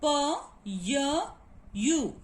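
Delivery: "p, y, u" as isolated sounds, well spaced; sounded out. Shown as a demonstration. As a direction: pull pu apart sound by sound. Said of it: "the phonetic transcription of pu".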